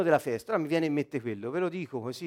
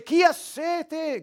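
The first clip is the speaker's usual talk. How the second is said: richiamo acuto con vocali allungate; grido a gran voce; 9 semitones higher, much slower than usual. Acted. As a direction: imita un grido alla folla, tono alto e lento. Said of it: "Gridò a gran voce". (grido a gran voce, alto e tenuto)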